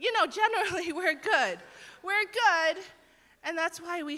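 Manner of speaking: mock self-satisfied. Mocking self-satisfied people.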